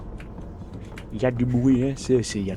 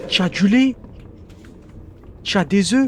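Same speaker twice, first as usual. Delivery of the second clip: mock neighbour; 6 semitones higher, 5 dB louder than usual.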